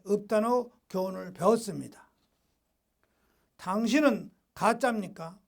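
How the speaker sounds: measured preacher's reading in short phrases; deliberate, formal pulpit delivery; emphatic read-aloud. Acted. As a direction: read it out firmly, pausing between phrases. Reads a devotional text to congregation.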